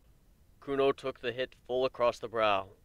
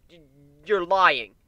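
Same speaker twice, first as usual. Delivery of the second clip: stammer, then burst out loud and higher; anguished denial; 6 semitones higher, 13 dB louder, slower than usual. A narrator's reading. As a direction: cry out in disbelief. Warren denies in anguish.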